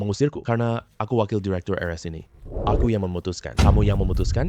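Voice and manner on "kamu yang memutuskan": loud, disbelieving echo of his words; incredulous outburst. Acted. Patient's grandson throws the vice director's claim back, loud and incredulous. Nephew challenges uncle's authority.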